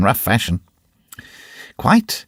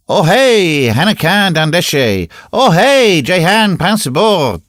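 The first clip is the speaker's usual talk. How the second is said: loud, high calling out; shouting; 8 semitones higher, 5 dB louder, slower than usual. A narrator's reading. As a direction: yell across the square. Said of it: "they shouted in deafening tones".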